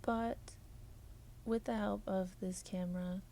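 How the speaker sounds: even, measured robotic delivery. Acted. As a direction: talk like a polite robot. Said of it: "I'm done talking like a robot".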